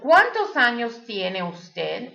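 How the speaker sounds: slow, careful Spanish with a rising end; slow teacher's model question in Spanish. Shown as a demonstration. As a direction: say it slowly so learners can copy. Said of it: "I want you to answer properly".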